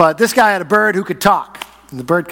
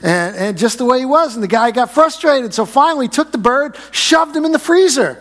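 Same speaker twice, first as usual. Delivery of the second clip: building excitement; 6 semitones higher than usual. Retold or imitated. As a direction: build the tension, pitch rising line by line. Joke building to punchline.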